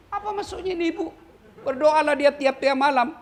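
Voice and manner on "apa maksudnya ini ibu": confused angel. Retold or imitated. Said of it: "bingung malaikat".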